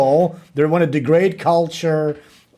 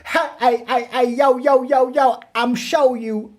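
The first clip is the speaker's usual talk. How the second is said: mock streamer hype; 6 semitones higher than usual. Mocking the streamer again.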